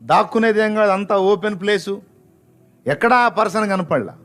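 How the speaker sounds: high-pitched, urgent narration; excited storytelling. A narrator's reading. Preacher tells of mother searching for vanished stranger, excited.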